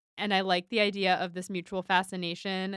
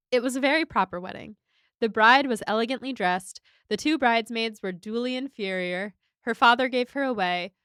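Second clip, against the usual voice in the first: reading a quote aloud; 2 semitones higher than usual. Shown as a demonstration. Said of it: "funniest quote".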